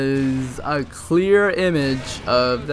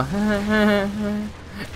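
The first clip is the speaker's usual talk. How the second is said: imitating teacher's awkward laugh; 7 semitones higher than usual. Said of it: "and she'd go".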